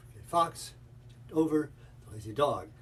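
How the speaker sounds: FOX, OVER and DOG each stressed; stressed syllables punched. Shown as a demonstration. Teacher repeating Fight Club drill, "fox", "over", "dog" stressed. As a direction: hit FOX, OVER and DOG, the rest lighter. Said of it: "stressing the stress syllable".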